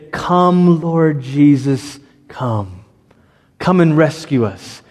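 slow, hushed prayer to Lord Jesus; prayerful plea. Acted. Pastor voicing the church's Advent prayer, slow and prayerful. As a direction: pray it as a longing call. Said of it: "this is also that moment where we say".

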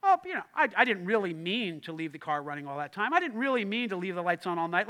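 mock passive-aggressive excuse. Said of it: "passive aggressive people will, like".

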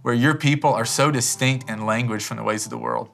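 earnest, measured pastoral prayer; closing prayer. Real, not acted. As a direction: pray aloud on behalf of the congregation. Leads closing congregational prayer.

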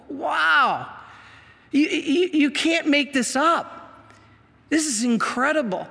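high-pitched, wondering disbelief; amazed. Real, not acted. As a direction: marvel at it, pitch lifted. Marvels at what he explained.

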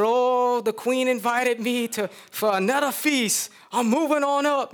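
high, gloating brag to his wife; boastful Haman. Acted. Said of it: "He said".

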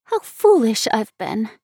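slow, drawn-out exclamation; self-reproachful exclamation. A narrator's reading. Girl exclaiming at her own mistake, rueful. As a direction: exclaim ruefully, stretching the words. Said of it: "she ejaculated".

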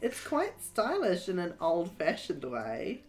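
a lightly voiced young girl; Abby voice.

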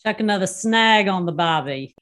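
put-on Australian barbecue slang; imitated Aussie accent. Shown as a demonstration. Guest repeats host's slang, imitated Aussie accent. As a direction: echo it in broad Aussie. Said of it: "in your best Aussie accent".

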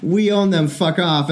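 a possessive protest played for laughs; mock protesting Denmark. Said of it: "And then Denmark's like".

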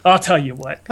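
lightly voiced ghostly announcer; a faint otherworldly narrator voice; disembodied voice. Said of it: "this disembodied voice is like".

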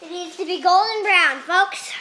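playful host voice to the audience; TV chef. Pretend. Mock cooking-show address.

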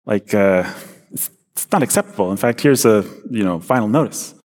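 put-on light Bronx accent, boss giving a warning. Boss from the Bronx warns Nathan he'll be fired, in Bronx accent. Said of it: "he kinda talks like this".

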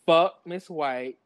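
slow read-out quote. Retold or imitated. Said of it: "She said".

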